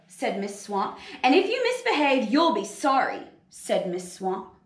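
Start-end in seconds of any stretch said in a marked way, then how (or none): 1.2-3.2 threatening teacher. Acted. Miss Swamp threatens the class.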